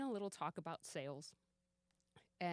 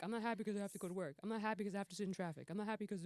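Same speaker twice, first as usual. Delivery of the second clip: mock complaint; 2 semitones higher, much faster than usual.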